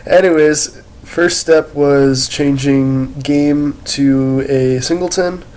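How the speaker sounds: congested, head-cold voice; stuffy nose. Real, not acted. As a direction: speak with a blocked nose. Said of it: "I got a cold".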